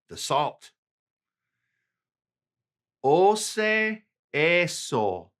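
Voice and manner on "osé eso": slow model phrase. Shown as a demonstration. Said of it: "repeated model for learners".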